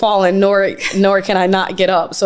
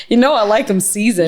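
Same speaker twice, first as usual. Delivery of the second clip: imitating her voice. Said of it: "Do you hear the way she talks?".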